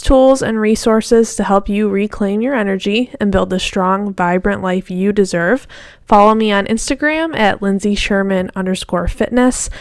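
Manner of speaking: upbeat scripted outro read; podcast outro. Acted. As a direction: read it like a polished sign-off.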